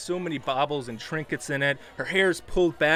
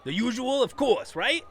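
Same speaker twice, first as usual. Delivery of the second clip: sweet barkeep. Acted. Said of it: "and said".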